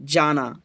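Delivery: "जाना" set apart after a pause; resume with "जाना" after the break. Shown as a demonstration. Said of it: "फिर रुक जाते हैं".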